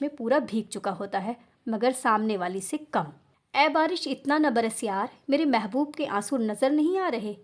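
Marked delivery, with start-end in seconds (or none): 3.5-7.4 reciting a couplet. Acted. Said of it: "शेर बोलकर". (धीमे अंदाज़ में शेर पढ़ना)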